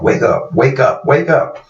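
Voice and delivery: from whisper to high urgent call; building urgency. Retold or imitated. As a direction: start hushed and rise to a high plea. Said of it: "and she's like".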